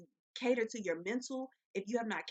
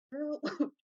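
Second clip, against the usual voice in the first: high, louder joking excuse after coughing; cough apology; 7 semitones higher, 4 dB louder than usual. Real, not acted. Vlogger excusing her coughing to viewers, high joking. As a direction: laugh it off, pitched up.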